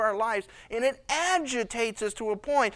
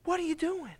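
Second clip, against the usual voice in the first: incredulous God; 8 semitones higher than usual. Acted. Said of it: "God up in heaven is like".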